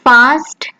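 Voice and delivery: fast with a German open a, fahst; German pronunciation. Shown as a demonstration. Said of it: "But in German".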